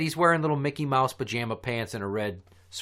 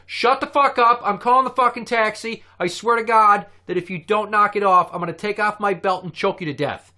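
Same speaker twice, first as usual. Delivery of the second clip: loud, high furious snap at the clients; a fantasy blow-up, shouted; imagined angry outburst; 7 semitones higher, 6 dB louder than usual. Pretend. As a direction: yell it like you've finally lost patience. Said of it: "I wanted to be like".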